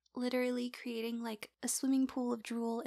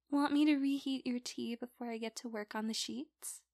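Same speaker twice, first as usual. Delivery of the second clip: ordinary talk, nothing marked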